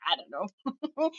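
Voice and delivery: a wife answers her husband's question, a soft sheepish mumble; sheepish small reply. Retold or imitated. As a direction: answer meekly, as if caught out. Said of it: "I was like".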